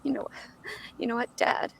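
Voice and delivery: very soft acted teen line; under the breath. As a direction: murmur it like a private first read. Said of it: "like under your breath, like little".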